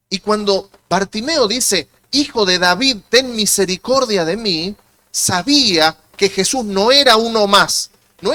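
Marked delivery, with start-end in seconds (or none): 2.1-4.8 pleading cry. Retold or imitated. Preacher quoting the beggar's plea.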